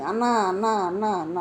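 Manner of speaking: fake whimpering cry. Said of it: "ఏడుస్తున్నట్టుగా".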